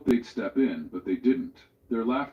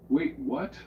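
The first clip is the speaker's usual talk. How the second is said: urgent; 5 semitones higher, 3 dB louder than usual. A narrator's reading. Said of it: "His voice was urgent now".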